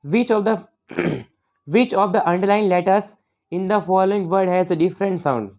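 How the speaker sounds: reads the English question out slowly and deliberately; careful classroom dictation pace; slow question reading. Shown as a demonstration. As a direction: spell out each word of the question slowly for the class. Reads exam question aloud.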